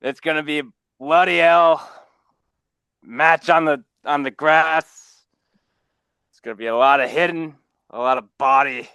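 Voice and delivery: put-on Irish accent. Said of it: "It's gotta be an Irish accent".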